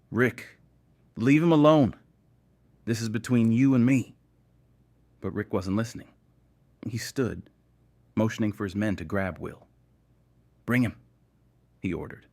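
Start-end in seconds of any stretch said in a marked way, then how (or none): 0.1-4.1 loud, high, desperate shout; sharp, desperate. A narrator's reading. Nate calls Rick off Will, sharp and desperate. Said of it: "sharp and desperate". 10.7-10.9 curt, cold command; cold, final order. A narrator's reading. Rick orders his men to grab Will, cold. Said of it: "his tone cold and final".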